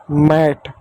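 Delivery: मैट with an open "ae" vowel; short-a pronunciation. Shown as a demonstration. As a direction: say मैट slowly as "maet". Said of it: "ए की मात्रा पढ़ेंगे". (मैट को ऐ की मात्रा से बोलें)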